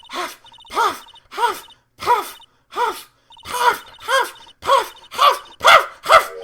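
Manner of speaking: winded cartoon character, shrill build-up; hammed-up hyperventilating. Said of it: "I'm gonna fucking hyperventilate here".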